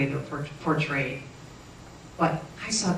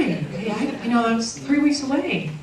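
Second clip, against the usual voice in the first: laughing protest; 8 semitones higher, 5 dB louder, slower than usual. Retold or imitated. Retold protest to doctor.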